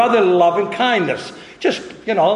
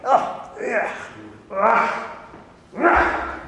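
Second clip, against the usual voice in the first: disgusted groan; 4 semitones higher, 3 dB quieter, much slower than usual. Retold or imitated. Disgust at being spat on.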